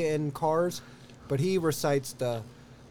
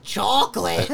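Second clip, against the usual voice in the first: SpongeBob lady impression; 3 semitones higher, slower than usual. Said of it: "the lady on SpongeBob is like".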